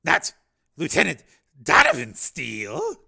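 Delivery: loud, halting question; startled disbelief. Acted. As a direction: check the name in dismay. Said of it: "his eyes growing wide".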